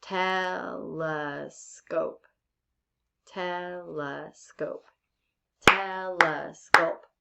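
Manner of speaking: "telescope" very slow, in three drawn-out beats; syllable by syllable. Shown as a demonstration. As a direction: break "telescope" into te, le, scope, each stretched. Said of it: "So let's try it like this".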